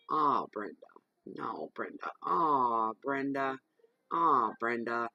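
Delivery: mildly voiced exasperated husband; channelling his frustrated sigh of a name; late husband's pleading tone. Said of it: "that's exactly how he said it, in that, that tone".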